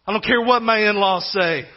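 slow, drawn-out insistence, a touch of desperation; desperate insistence. Acted. Preacher voicing Zechariah overruling the in-laws, mildly desperate. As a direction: insist with each word stretched out. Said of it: "desperately saying".

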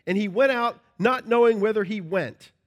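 measured, solemn reading of scripture. Acted. Preacher reading Hebrews aloud to congregation, solemn.

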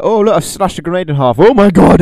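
loud, high mock-excited cry; Deadpool. Acting out a hero slashing a grenade, high mock shout. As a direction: exclaim it high, building to a shout. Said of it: "Deadpool can be like".

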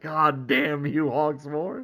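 slow, drawn-out mock cursing; retold exasperated curse. Podcaster voices hero cursing the friend who stranded him, exasperated. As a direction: drag out the curse in resigned frustration, as a retelling.

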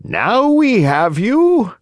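slow, menacing villain voice; threatening growl. A narrator's reading. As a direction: gloat over the caught puppet. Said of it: "the same two horrible voices growled threateningly".

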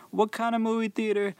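high, pushy disbelieving customer voice; indignant customer. Retold or imitated. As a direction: play the baffled customer who expects shrimp. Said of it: "And he was like".

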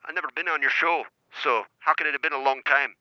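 prank caller's shaky Cockney attempt; attempted Cockney accent. Caller posing as Sean from Milton Keynes, attempted Cockney accent. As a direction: pose as a Cockney caller, not very convincingly. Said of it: "I was doing a Cockney accent".

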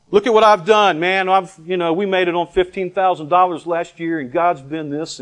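hammed-up bragging, starting high and loud; mock boasting. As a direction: play a braggart listing his sacrifices. Mimicking his own past boasting.

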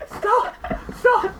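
loud desperate plea to stop; shouting. Real, not acted. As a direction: yell stop, begging them. Pleading friends to stop talking.

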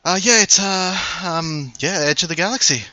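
soldier voice. Acted. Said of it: "Smith, the, uh, human woman, turns and she says".

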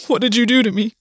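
words forced out through threatening sobs; understated broken, tearful demand; cracked and broken. A narrator's reading. Gwen to August after being sick on the bathroom floor, cracked and broken. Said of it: "cracked and broken".

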